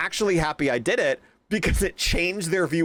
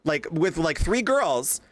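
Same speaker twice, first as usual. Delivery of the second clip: higher, heated rant; high heated retold rant; retold telling off; 8 semitones higher than usual. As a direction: replay the heated rant at the teacher. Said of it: "I said".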